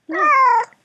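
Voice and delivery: sudden high, loud what; startled what. Real, not acted. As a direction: blurt it out, startled. Startled by the cat.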